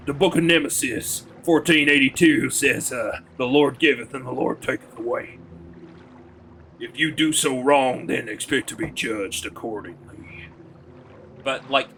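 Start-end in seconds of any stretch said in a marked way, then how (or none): 0.1-10.5 Southern hick Bible-quoting preacher; low hick accent. Shown as a demonstration. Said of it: "suddenly you're quoting Bible verses".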